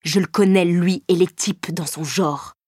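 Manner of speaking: slow, spiteful; a hint of bitter spite; spat with spite. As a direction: spit the words out slowly. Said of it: "cracha-t-il plein de hargne".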